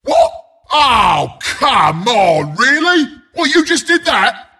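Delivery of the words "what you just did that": indignant disbelief. Acted. Outraged at not being picked.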